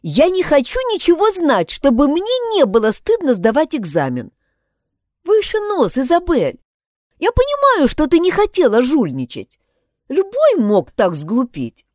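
высокий девичий голос, подбадривает; подбодри подругу, голос выше обычного; girl comforting. Acted. Pat voiced, comforting. (Пат подбадривает расстроенную Изабель, высоким девичьим голосом)

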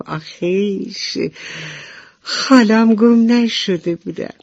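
relieved and delighted; happy relief. Acted. Ladybug glad her spots weren't lost, relieved. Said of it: "با خوشحالی خندید و گفت".

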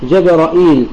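“جبرائيل” said with a hamza followed by a long ī; 带延长 ya 的读法. Shown as a demonstration. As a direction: pronounce “جبرائيل” as Jabra'īl, drawing out the final ī. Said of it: "الياء بعدها".

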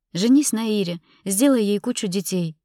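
hurt, cutting send-off; bitter dismissal. Acted. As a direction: send him off to her bitterly. Bitterly dismissing him to rival.

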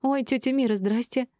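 high, surprised greeting; young woman's flustered hello; taken aback. A narrator's reading. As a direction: greet her in startled recognition. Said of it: "опешила молоденькая Юлия".

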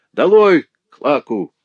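high, loud jeer; heckling shout. A narrator's reading. Lame boy heckles the old woman, shouting. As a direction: yell it down like a rowdy gallery.

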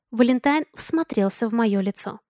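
plain reading voice

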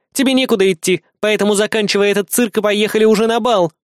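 high-pitched, firm female voice; high, insistent bodyguard; insistent Kri. Acted. Кри уговаривает мальчика.

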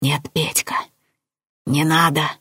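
mildly nervous confirmation; understated jittery reassurance; nervous chuckle. A narrator's reading. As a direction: agree with an uneasy half-laugh. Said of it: "с нервным смешком подтвердил Возняк".

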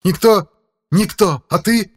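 high, loud mocking rage; furious demon shriek. A narrator's reading. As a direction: spit the words back in fury. (яростный крик демона)

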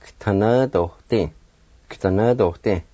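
"K'tanadohte" with G run straight into T; slow, careful whole-word "K'tanadohte"; blended G and T. Shown as a demonstration. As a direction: start K'tanadohte on a tight "kt" cluster. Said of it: "start the G sound with the T like this".

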